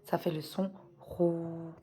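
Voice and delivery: Rou with the ou held slowly and long; long vowel demo. Shown as a demonstration. Teacher slowly showing pupils the long Rou. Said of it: "avec le grand Waw".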